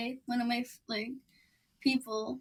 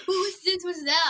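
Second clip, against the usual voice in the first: high, puzzled questions; confused kid; 8 semitones higher than usual. Retold or imitated. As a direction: sound baffled. Boy confused, quoted.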